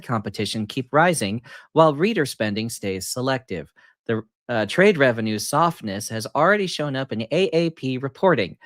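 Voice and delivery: flat, even robot reading; monotone robot. Pretend. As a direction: read it like a droning machine. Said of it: "just do monotone, monotone robot".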